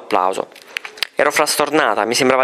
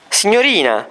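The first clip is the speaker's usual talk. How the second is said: surprised; 7 semitones higher than usual. A narrator's reading. Mother superior amazed at the teacher, startled exclaim. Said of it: "si stupì la reverenda madre".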